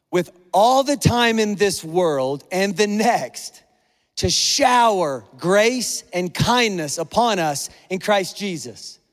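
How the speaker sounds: slow, weighty reading of scripture. Real, not acted. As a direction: let each phrase land slowly on the congregation. Reading a Bible verse aloud to congregation.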